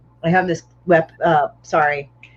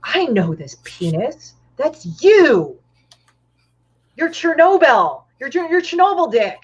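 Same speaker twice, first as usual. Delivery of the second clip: slow, rising higher to a shocked cry; a young woman realising in horror; shocked recognition; 8 semitones higher, slower than usual. Pretend. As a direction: pitch climbing high as she recognises him. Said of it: "she will look at him and say".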